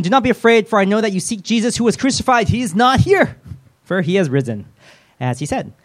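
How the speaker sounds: high, loud, hammed-up angel announcement; angel's proclamation. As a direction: declaim it like a grand heavenly herald. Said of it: "I really don't think they speak like that".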